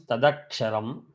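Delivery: tadaksharam run together with a voiced d; words joined. Shown as a demonstration. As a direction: link tat and aksharam into one word, tadaksharam. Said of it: "When combined becomes".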